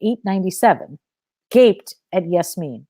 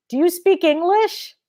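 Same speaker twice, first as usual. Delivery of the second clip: slow raised voice; 10 semitones higher than usual. Acted. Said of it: "think that shouting clarifies everything".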